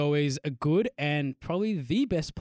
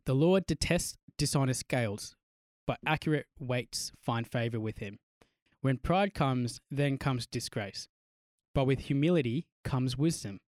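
slow, measured Bible reading; scripture reading; slower than usual. Acted. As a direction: read it slowly and solemnly. Reads Bible passage.

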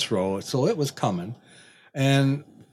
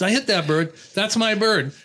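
higher-pitched, lightly winded retelling; imitated breathlessness; 6 semitones higher than usual. Hunter running up to claim his bird, lightly imitated breathlessness. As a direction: mimic someone a little out of breath. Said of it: "he's kinda out of breath".

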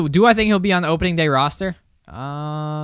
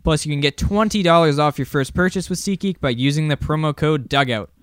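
ad read. Acted. Reads sponsor ad.

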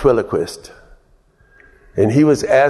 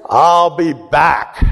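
excited quote; 5 semitones higher, slower than usual. Real, not acted.

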